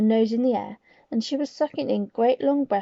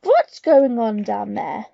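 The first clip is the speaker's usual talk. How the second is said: shouted; 7 dB louder, slower than usual. Acted. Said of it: "shouted the Grand High Witch".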